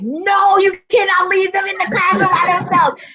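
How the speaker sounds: calling out while rushing down the hallway; alarmed. Retold or imitated. Running to abandoned noisy classroom.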